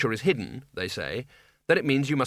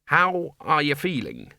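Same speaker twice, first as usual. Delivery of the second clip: put-on slow, raised voice to a deaf old man; loudly; 3 semitones higher, slower than usual. A narrator's reading. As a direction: speak up for a deaf wizard. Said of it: "said the Dean loudly".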